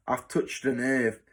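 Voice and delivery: mildly mocking taunt. Matron teasing a boy she has upset, mildly mocking. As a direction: needle the boy lightly. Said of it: "she added mockingly".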